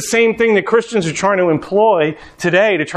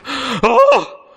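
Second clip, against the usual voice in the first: disgusted Pharisee; 6 semitones higher than usual. Retold or imitated. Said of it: "the Pharisees are like".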